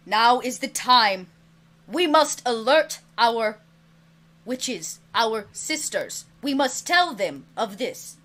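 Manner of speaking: slow, loud solemn dragon proclamation; grave dragon. Acted. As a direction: announce the danger like an ancient dragon. GM voices dragon warning players.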